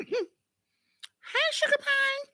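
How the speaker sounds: high sweet cat call. Shown as a demonstration. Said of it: "In that high voice".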